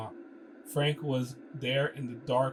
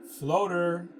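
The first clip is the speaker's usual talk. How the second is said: put-on Russian-accented call; 5 semitones higher, 6 dB louder than usual. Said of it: "interrupted her voice".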